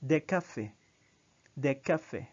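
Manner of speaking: des cafés said as day café, no final S; French pronunciation. Shown as a demonstration. Teacher modeling plural article, careful pronunciation. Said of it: "So you say des".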